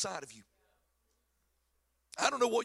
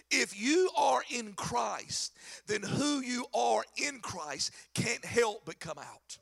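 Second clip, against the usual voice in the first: preaching at full force; slower than usual. Real, not acted. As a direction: drive the point home to the church. Preaching climax, shouted slowly.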